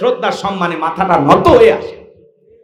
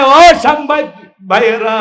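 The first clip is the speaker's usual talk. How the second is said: old father's high call, acted in sermon chant; retold calling out; 8 semitones higher, 5 dB louder than usual. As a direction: call out pleadingly to the reporters, as a retelling. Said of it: "আর ডেকে বলে". (ডেকে ওঠার অভিনয়)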